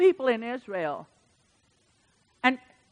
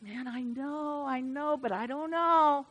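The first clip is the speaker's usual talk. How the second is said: slow, much softer unsure voice; doubting churchgoer; 2 semitones higher, 7 dB quieter, slower than usual. Retold or imitated. An unsure believer answering God, slow and soft. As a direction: mumble the doubt slowly and softly. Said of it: "some are like".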